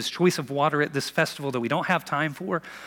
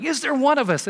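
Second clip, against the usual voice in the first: higher mock sneer; 10 semitones higher, 4 dB louder than usual. Pharisees scoffing in the council room, mock sneer. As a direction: lightly sneer the question. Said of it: "they're like".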